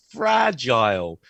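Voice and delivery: "fragile" slowly, punched FRA, ending like "aisle"; stressed FRA, "aisle" ending. Shown as a demonstration. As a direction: model "fragile" as FRADGE-aisle, drawn out. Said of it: "stress is on the first word and it's aisle".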